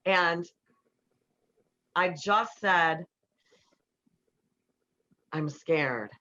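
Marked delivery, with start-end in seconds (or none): 5.3-6.1 vulnerable. Retold or imitated. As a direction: say it simply, letting him in. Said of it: "told him how it was landing with me".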